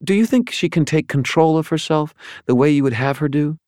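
high, cool fallen angel voice; an otherworldly angel, detached and probing; Lashiel's voice. A narrator's reading.

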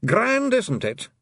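high, loud, delighted Scots pixie; a wee pixie grinning over his heaven in broad Scots; beaming happily. Acted. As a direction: relish every joy of the fight. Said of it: "beaming happily".

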